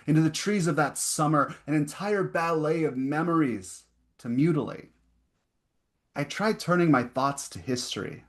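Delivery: deliberate poem delivery with spaced phrases; poetry reading. Acted. Poet reading of a first vision at night, measured recital. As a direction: recite line by line, pausing between images. Reads second poem aloud.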